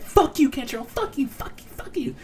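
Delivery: high, hushed imitation of a screaming rant; mock angry cursing. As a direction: mimic her tirade in a squeaky half-whisper. Doc's angry cursing acted out.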